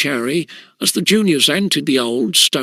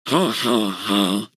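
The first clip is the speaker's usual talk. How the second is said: laughing; 6 semitones lower, 3 dB quieter, slower than usual. Acted. Juniors laughing at Bunter.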